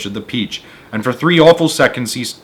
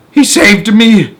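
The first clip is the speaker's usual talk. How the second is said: higher, louder, slow breathless joy; gasped; 9 semitones higher, 8 dB louder, slower than usual. Acted. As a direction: gasp out your relief. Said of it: "gasped the centipede".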